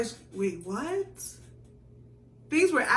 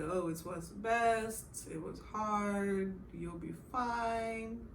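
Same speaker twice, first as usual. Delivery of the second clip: mother comforting; much slower than usual. Retold or imitated. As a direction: soothe her gently and slowly. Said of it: "she's like".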